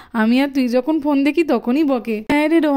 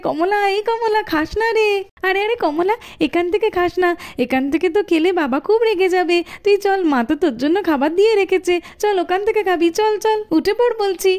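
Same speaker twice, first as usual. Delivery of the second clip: calling out to the cow; 4 semitones higher than usual. Acted. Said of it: "তুমি এত চেঁচামেচি করছো কেন".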